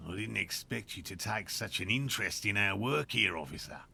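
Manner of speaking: put-on lightly done Australian accent; a bad Australian accent, lightly voiced. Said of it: "such a bad Australian accent".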